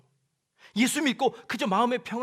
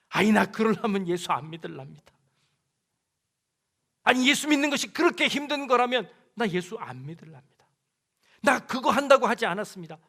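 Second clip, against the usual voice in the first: grumbling refusal; 6 dB louder than usual. Acted. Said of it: "라고 하는 거".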